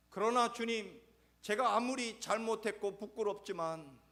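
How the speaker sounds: loud, high, anguished plea; crying out in shame; pleading Peter. Acted. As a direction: beg your Lord for forgiveness. Peter begging forgiveness.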